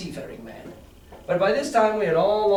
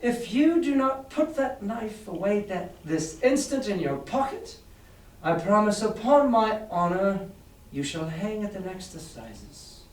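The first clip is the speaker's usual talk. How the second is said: higher, calm and steady warning; calm, steady, rather high; 4 semitones higher than usual. Acted. Doctor warning the knife-wielding captain, calm and higher. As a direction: stay calm and steady, pitched up so the room hears. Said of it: "rather high, but perfectly calm and steady".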